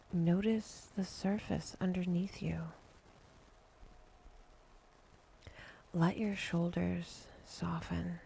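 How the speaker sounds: unhurried meditation guide, long pauses between phrases; calm, spacious relaxation cue; guided meditation. Acted. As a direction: gently lead a breathing exercise, leaving space after each instruction. Leads a breathing and body exercise.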